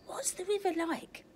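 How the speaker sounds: eager little otter, high; calling out. Acted. Oliver calling to his parents, high and eager. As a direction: call out like an excited child. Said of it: "he called out".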